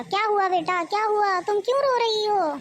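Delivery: put-on a mother fussing over her crying girl; worried mother. Mother asks her weeping daughter what happened, rising worry. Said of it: "माँ ने पूछा".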